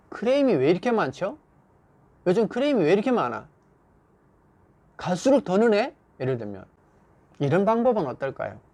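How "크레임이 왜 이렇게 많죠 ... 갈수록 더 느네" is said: mildly reproachful, higher pitch; reproche. Acted. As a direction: nag a worker about mounting complaints. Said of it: "나무라고 질책하는 것이".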